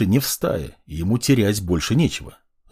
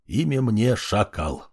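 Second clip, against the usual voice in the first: mumbling; 4 dB quieter, slower than usual. Acted. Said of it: "забормотал он".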